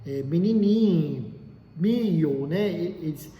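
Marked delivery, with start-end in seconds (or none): 0.2-2.5 slow, lightly Minas Gerais accent on menininho, mio; a hint of mineiro clipping the syllables; mild Minas Gerais accent; mineiro accent demo. Shown as a demonstration. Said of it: "Ela fala".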